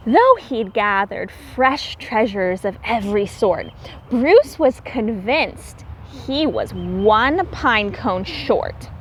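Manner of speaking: lilting read-aloud storybook voice; rhyming story narration. A narrator's reading. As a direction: read the rhymes to the children with a gentle lilt.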